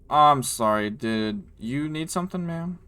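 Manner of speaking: drawn-out, rising polite question; voiced guard. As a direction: stop and ask the stranger, pitch climbing on "ma'am". Game master voices a guard.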